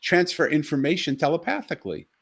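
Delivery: a father stunned his daughter has been talking to him all along; amazed outburst. Retold or imitated. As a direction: exclaim it in astonished wonder.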